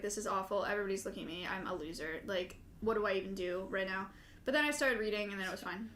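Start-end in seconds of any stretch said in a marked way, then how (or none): 0.0-4.1 mock despair. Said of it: "I was like".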